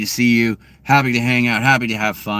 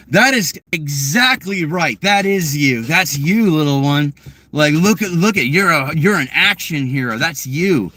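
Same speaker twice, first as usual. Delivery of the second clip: encouraging; 4 semitones higher than usual. Retold or imitated. Praising child as action hero.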